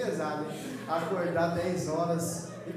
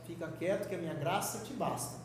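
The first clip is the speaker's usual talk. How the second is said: a calm, quieter "Fica quieto que a minha graça te basta"; softer God voice; 3 semitones lower, 7 dB quieter than usual. Retold or imitated. God gently answering Paulo, calm and quieter. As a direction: say "Fica quieto" gently and low-key, before God raises his voice. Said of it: "Aí quando Deus fala um pouquinho mais alto".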